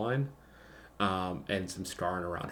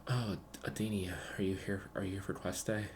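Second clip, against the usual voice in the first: gravelly voice; 3 dB quieter than usual. Acted. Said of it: "like, a gravelly voice".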